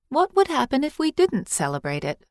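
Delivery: put-on high, eager child asking; a curious little girl, pitched high; young girl's voice. A narrator's reading. Girl questioning the old priestess, high and eager.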